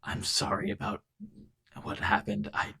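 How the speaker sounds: a hesitant, guilty apology; mournful. Acted. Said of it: "almost mournfully".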